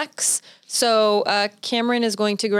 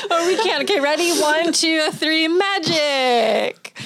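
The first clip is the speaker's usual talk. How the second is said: laughing; 5 semitones higher, slower than usual. Real, not acted. Laughing through countdown.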